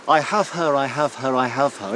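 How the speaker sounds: shouted claim in a light Shropshire accent. Shown as a demonstration. Professor demonstrates the harvest cry, Shropshire accent. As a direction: call it out Shropshire style, falling each time. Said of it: "in a Shropshire accent".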